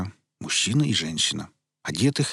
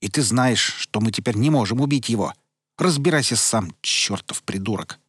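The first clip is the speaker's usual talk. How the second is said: angry; 2 semitones higher, 3 dB louder than usual. Acted. Sara's angry tirade.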